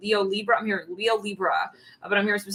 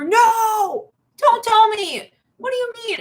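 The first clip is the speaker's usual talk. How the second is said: high, loud dramatic disbelief; hammed-up gasp of shock; mock shocked cry; 13 semitones higher, 7 dB louder, slower than usual. Partner reacting to news, loud high shock.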